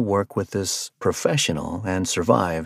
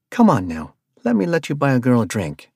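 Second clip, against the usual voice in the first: light, teasing invitation; half-flirting with Arthur; flirtatious; 4 semitones higher, 3 dB louder than usual. Acted. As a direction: coax him, a little flirty. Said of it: "almost flirtatiously".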